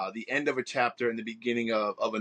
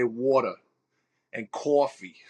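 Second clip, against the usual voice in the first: Long Island accent; 4 dB louder than usual. Shown as a demonstration. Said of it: "how you know if someone's Long Island".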